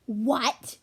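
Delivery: gasped. Acted. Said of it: "gasped Sorrel".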